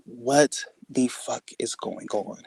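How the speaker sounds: slow, hushed bewilderment; stunned disbelief. Retold or imitated. Reacting as the man walks away, stunned.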